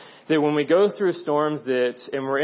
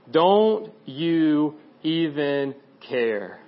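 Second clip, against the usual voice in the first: very slow, spaced-out retold plea; overwhelmed reproach; much slower than usual. Disciples look at Jesus in the storm, overwhelmed reproach. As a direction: draw out each word of the reproach. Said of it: "them feeling overwhelmed".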